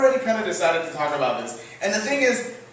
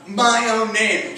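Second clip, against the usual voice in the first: mock-grateful retort; sarcastic thanks. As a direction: act out thanking a corrector with heavy irony. Sarcastic thanks to woman correcting him.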